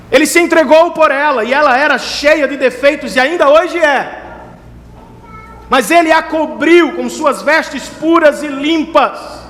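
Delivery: high, impassioned pulpit delivery; preaching at full force. Acted. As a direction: thunder God's promise to the congregation, stretching key words.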